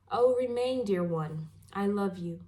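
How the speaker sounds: measured poetry reading with pauses between phrases; poem recital. Acted. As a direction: read it as verse, line by line. Reads a poem aloud.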